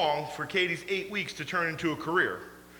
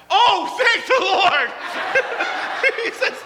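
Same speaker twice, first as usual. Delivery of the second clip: high, loud, slow laugh of relief; relieved laughter; 11 semitones higher, 4 dB louder, slower than usual. Retold or imitated. Caleb laughing in relief to his friend about the cancelled ride. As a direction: laugh out thanks like a man spared.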